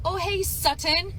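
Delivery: Sutton said with both T's crisply popped, slow; "Sutton" with the T's hit hard, slowly; overenunciated T's. Retold or imitated. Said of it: "I'm not gonna enunciate the T's like that".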